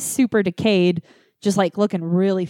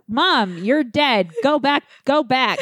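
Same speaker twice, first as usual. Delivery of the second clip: higher, slow desperate plea; slow high pleading; 6 semitones higher, slower than usual. Retold or imitated. Begging her dead mom to go back, slow high plea. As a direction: coax her back to the grave.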